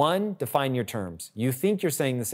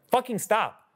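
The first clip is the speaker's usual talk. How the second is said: higher-pitched mock exasperation; retold exasperated outburst; 10 semitones higher than usual. Wife finally telling husband to stop, retold exasperation. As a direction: imitate someone finally losing patience.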